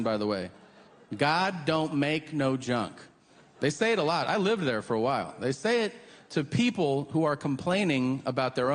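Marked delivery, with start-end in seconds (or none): 1.1-2.9 Southern saying. Retold or imitated. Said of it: "That's a real expression".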